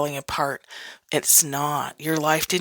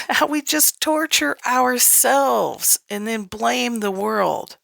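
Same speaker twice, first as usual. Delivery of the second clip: slow, higher, laughing through it; 5 semitones higher, slower than usual. Real, not acted. Coach amused at how we torture ourselves, slow laughing. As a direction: chuckle through the words slowly.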